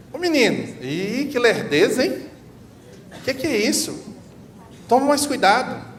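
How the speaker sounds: high, loud impatient scolding; scolding a child. Retold or imitated. Parent scolding a child who spilled water, impatient. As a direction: snap at a clumsy child. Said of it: "o que que normalmente se fala com a criança".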